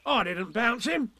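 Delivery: lightly voiced tiger; Tigger voice. Tigger denies.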